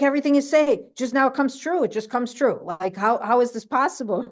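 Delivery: hamming up her amazement; waitress marvelling, lightly voiced; amazed waitress. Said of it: "She's like".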